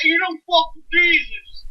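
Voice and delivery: mock solemn. Shown as a demonstration. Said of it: "You can say it like that".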